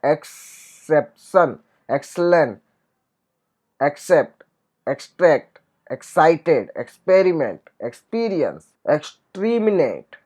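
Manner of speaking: "एक्सेप्शन" said slowly, each sound "ks" drawn out; slow demo. Shown as a demonstration. Teacher slowly models "एक्सेप्शन" for students. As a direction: stretch out "एक्सेप्शन" so the "ks" is heard. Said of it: "क्ष का उच्चारण होता है".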